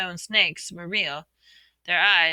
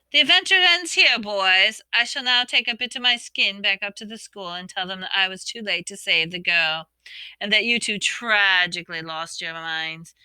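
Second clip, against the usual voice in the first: gloating villain; 4 dB louder than usual. Acted. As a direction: gloat like a smug traitor. Villain gloats over trapped boys.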